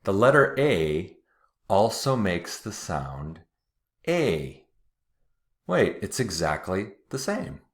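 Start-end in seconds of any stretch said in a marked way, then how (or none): 0.0-4.7 each word set apart, stress on letter; slow careful repeat. Shown as a demonstration. Teacher repeating the rule slowly and deliberately. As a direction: say it again carefully for the class. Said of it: "let me say that again".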